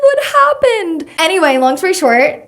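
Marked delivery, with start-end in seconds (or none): 0.1-1.1 mock concern. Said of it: "She was like".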